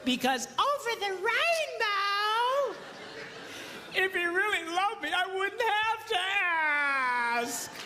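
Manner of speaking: high, slow, wistful mock whine; mock dreamy wife. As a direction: parody a lovesick daydreamer. Mocking dreamy wife's thinking.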